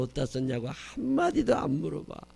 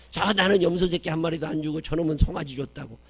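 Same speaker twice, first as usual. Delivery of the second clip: higher, louder indignant complaint; aggrieved elder son; 5 semitones higher, 6 dB louder than usual. Acted. Elder son protesting to his father, loud and high. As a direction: complain like a jealous older brother.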